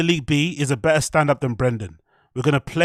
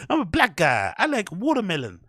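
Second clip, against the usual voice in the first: hacky black voice; 4 semitones higher than usual. Retold or imitated. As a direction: stretch it out as a parody. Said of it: "that kind of voice inflection".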